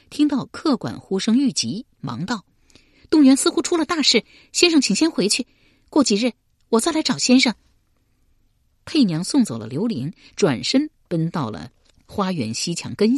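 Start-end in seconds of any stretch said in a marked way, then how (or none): 3.1-7.5 高声快说，十分着急; 赶着要走，匆匆交代; 急促催促. A narrator's reading. 客馆出事，佩娘催促. (佩娘急着催刘玲回屋)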